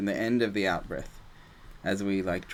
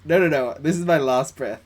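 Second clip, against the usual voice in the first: firm inner refusal; 4 semitones higher, 7 dB louder than usual. Retold or imitated. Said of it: "you need to be like".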